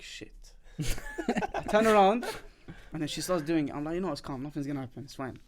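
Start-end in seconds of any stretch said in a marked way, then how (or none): 0.0-0.3 much softer, breathed-out curse; hushed dread. Retold or imitated. Man dreading turning over on the massage table. 3.9-5.4 softer and lower, fading; self-soothing murmur. Retold or imitated. Man calming himself silently during the massage.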